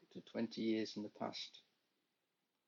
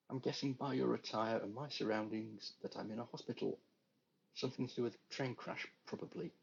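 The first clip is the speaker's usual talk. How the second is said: sarcastic; 3 semitones higher than usual. Acted. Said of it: "Travis replied sarcastically".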